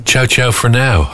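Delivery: sing-song goodbye. Retold or imitated. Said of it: "I like that".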